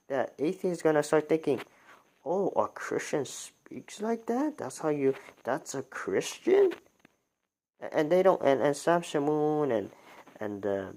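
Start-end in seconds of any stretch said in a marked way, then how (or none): 2.2-6.7 mock incredulous atheist. Imagined atheists mocking Christians.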